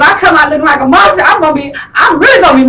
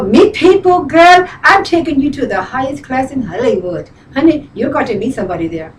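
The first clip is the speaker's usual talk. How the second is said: lightly imitated friend, bossy and encouraging; friend's voice. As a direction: mimic your friend rallying her to go out. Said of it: "she talks like this".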